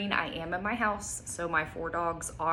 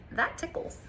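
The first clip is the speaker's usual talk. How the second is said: breathy whisper, a touch higher; whispered giggly reply; 9 semitones higher than usual. Acted. Child reacting to a dog's lick, whispered. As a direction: whisper it like a tickled kid. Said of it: "It says".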